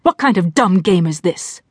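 understated angry challenge; furious. Acted. No-bullshit voice challenging Jessie's mantra, furious. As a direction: demand an answer with contained anger. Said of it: "The no-bullshit voice broke in furiously".

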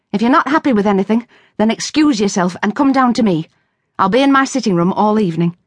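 a hint of a worried mother hurrying her advice; lightly voiced anxious mother; mother Ivy. Ivy's voice held by narrator.

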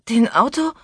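put-on high, confused drunk mumble; town drunk. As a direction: slur it, baffled and tipsy. (verwirrt lallend und hoch)

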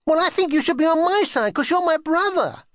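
put-on very high, tearful child's protest; wounded childish plea; sniffy complaint. A narrator's reading. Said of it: "sniffed Kitty".

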